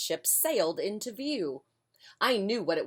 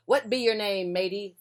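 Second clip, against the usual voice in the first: pirate voice; 3 semitones higher, 4 dB louder than usual. Acted. Pirate captain asking.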